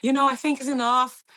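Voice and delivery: imitating a worried mother; mom's worried plea. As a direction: beg him to quit like a worried mom. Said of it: "She's like".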